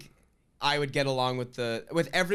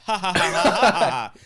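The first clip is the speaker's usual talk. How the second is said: stiff robotic alien laughing; 2 semitones higher, 8 dB louder than usual. Pretend. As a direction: laugh like an alien copying humans. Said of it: "like an alien being like".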